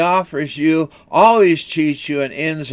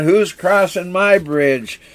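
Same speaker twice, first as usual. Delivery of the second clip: slow, higher-pitched troll demand; mock troll challenge; 3 semitones higher than usual. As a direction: draw out a lightly acted troll's challenge. Troll challenges the second goat.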